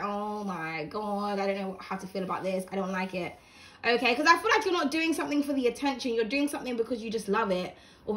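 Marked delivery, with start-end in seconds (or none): 0.0-3.4 mock flustered. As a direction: shrink away, overwhelmed by the attention. Shy person overwhelmed by attention.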